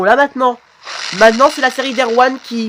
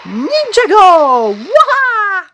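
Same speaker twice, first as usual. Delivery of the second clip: high, drawn-out attack yell; battle cry; 13 semitones higher, 3 dB louder, much slower than usual. Acted. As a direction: charge in with a long high cry. Battle cry in play fight. (cri de guerre aigu et prolongé)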